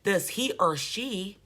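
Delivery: slow, dragged imitation of the preacher; lightly mimicking a slurring preacher, slowed down; mock slurred. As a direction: drag the words out like a tipsy speaker. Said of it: "he didn't go back and say".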